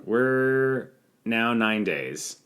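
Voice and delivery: drawn-out announcer delivery; slow dramatic announcement. Acted. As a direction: stretch each word out slowly. Slow dramatic band pun.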